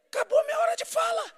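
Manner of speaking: joking husband, high-pitched exclamation; squeaky exasperated punchline. Retold or imitated. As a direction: squeal it out in mock despair.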